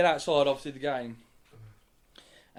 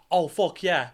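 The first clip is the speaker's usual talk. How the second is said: celebratory yell; 3 semitones higher, 10 dB louder, slower than usual. Retold or imitated. Mate celebrates goal, mid-throw.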